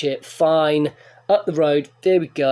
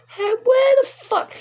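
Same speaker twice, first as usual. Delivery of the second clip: exasperated shout; 4 dB louder than usual. Retold or imitated. Lost, frustrated in town.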